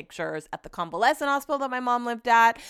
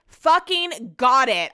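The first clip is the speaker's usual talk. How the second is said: annoyed; 5 semitones higher, 6 dB louder, much slower than usual. Retold or imitated. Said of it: "starting to get annoyed".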